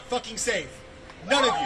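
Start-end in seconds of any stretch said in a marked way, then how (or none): 1.3-1.7 high, loud yelled warning; furious shout. Real, not acted. Protester warning absent listeners, furious shout. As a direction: scream it at them.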